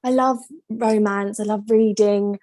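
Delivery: light Welsh lilt quoting Paige; Welsh accent. Retold or imitated. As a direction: imitate her Welsh accent. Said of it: "how good that accent was".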